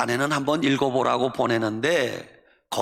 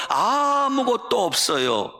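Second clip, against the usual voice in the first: higher, slower 아무것도 없어요 with 아무것도 stressed and falling; peak of a sulky complaint; 8 semitones higher, slower than usual. Retold or imitated. Poet crying out to God that she has nothing, sulky and slow. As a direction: pour out the grievance at its peak. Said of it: "볼멘 소리로 기도했어요".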